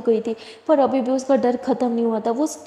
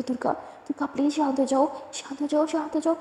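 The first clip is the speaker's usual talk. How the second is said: whispered then soft, calming her down; softly calming a trembling friend in a storm; soothing hush; 2 semitones higher, 5 dB quieter than usual. Acted. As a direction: hush her gently like a scared child.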